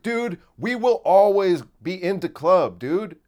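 loud, slow dude-bro voice; hammed-up club bro talking slang; bro club guy voice. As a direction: play the wannabe club bro. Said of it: "Stop talking like that".

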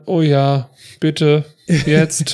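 loud, eager begging; hammed-up eager yes please. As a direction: blurt it out like a desperate guy. Retells JD's eager reply.

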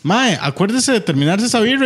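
lightly voiced carefree Flash; breezy parting line; old Flash. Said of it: "es como".

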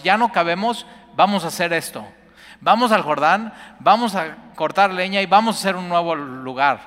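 loud, high and eager; rally everyone to go build; rallying call. Acted. Disciples urging each other to the Jordan, loud rallying call. Prophets propose building a new place.

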